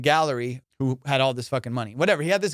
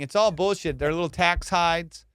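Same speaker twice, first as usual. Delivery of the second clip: usual speaking voice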